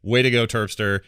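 ordinary talk

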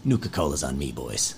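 calm the crowd like a trusted dad figure; calm leader. Acted. Ollie promises drinks.

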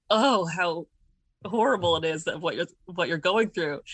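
mildly hammed-up mock horror; over-exaggerated sympathy. Imitating mom in a dream mocking her daughter's stress, over-exaggeratedly. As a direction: imitate overdone, theatrical commiseration, lightly played. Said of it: "acted, like, so over-exaggeratedly".

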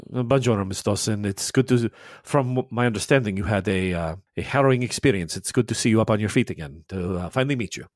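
lightly voiced Italian priest, courteous and mild; a hint of a kindly Italian father greeting a guest. The priest greeting Faye, lightly Italian and courteous.

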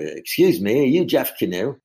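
put-on rough, half-hearted Australian accent; attempted Australian accent. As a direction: imitate an Australian calling out to someone. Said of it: "in Australian accent, I can't do it".

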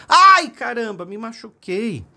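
high cry that opens loud and drops off; child's pained shout. A narrator's reading. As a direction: yell out like a boy who just fell. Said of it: "o seu filhinho caiu e gritou".

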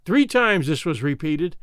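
usual speaking voice

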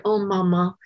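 put-on little girl gently reassuring her frightened mother; gentle reassurance. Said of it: "touch her mother's face very gently and say".

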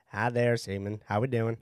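quiet Southern hello; Southern accent. Acted. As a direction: greet them softly in a Southern accent. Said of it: "making fun of my accent".

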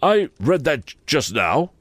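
high, pleading Wopsle voice. A narrator's reading. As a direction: plead it, a little flustered. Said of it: "Mister Wopsle pleaded".

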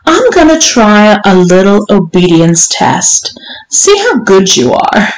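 lightly voiced strict madam, lifting at the question; commanding mistress. Mistress instructing her servant, mildly imperious. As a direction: lay down the rules as a demanding mistress. Voices the story's Missus Johnson.

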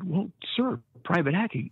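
high, careful sir; timid recruit answer. Retold or imitated. Recruit repeating his name to the drill instructor, high and meek. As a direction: answer meekly, unsure. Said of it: "I said".

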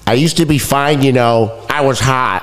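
Ron impression. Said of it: "That's Ron".

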